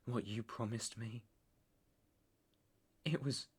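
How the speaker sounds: very soft, low, halting voice; hushed recollection. Acted. Man recalling his mother's grave to lover, hushed recollection. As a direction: drop to a soft, low murmur with pauses.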